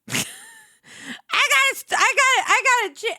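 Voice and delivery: high, halting mock sob; half-joking whimper, breaking off mid-word; mock crying. Streamer overcome by a favorite song, playfully near tears. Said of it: "I'm gonna start crying".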